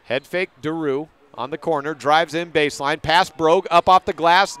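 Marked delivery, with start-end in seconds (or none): 3.0-4.6 louder rising call on the drive; excited call. Real, not acted. Announcer calling a layup to radio listeners, excited. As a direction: lift as she goes up off the glass.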